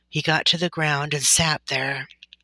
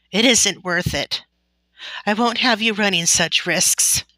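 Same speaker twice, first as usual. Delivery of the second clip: sobbing; 5 semitones higher, 5 dB louder than usual. A narrator's reading. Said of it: "Ma sobbed".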